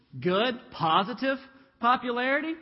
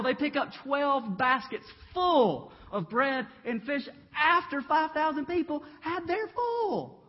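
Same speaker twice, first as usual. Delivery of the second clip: rising excitement; 5 semitones higher, 3 dB louder than usual. Real, not acted. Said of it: "preacher builds the miracle count".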